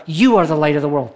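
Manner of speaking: "You" leaned on at the start, the rest plain; preacher stressing "You" to the congregation. Shown as a demonstration. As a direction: hit the word "You" first. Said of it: "the emphasis is on the word you".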